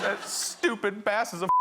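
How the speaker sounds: imitated tearful outburst. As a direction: mimic a child venting through tears. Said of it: "continues to cry".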